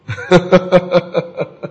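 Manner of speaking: quiet "heh-heh" run; staccato chuckle. Acted. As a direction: chuckle quietly in short even bursts. Mimicking excuse of idle gossipers.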